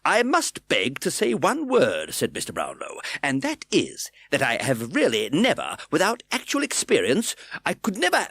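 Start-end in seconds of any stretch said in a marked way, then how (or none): 0.0-2.1 put-on slow, raised plea of an old gentleman; Brownlow, earnest plea. A narrator's reading. Brownlow voiced in reading. 3.2-8.3 higher, louder, protesting; flustered old gentleman. A narrator's reading. Brownlow voiced in reading.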